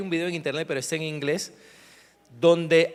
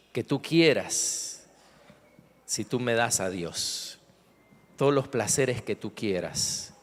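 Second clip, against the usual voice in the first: the devil bargaining for God, lower voiced; tempting devil; 5 semitones lower than usual.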